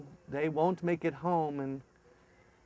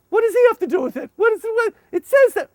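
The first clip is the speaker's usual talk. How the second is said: fast loud high baffled; baffled questions; 9 dB louder, faster than usual. Retold or imitated. Leader puzzled by translator, fast loud. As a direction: fire off confused questions.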